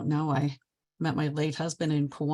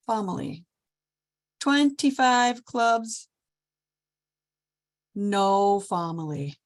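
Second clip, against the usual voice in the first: put-on slow, high, broken-English Polish accent; Polish-accented guest counting clubs, drawn out; 7 semitones higher, slower than usual. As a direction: play the Polish visitor slowly searching for words. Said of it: "I gotta stop talking like this".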